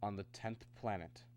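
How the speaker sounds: understated and hushed; reluctant reveal. Acted. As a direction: say it softly, reluctantly. Reluctant revelation, said low.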